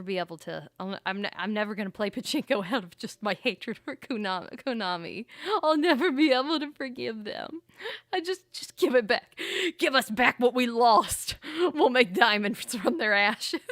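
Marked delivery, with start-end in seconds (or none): 5.6-13.6 mock-heroic vow. Mock-dramatic vow against Konami.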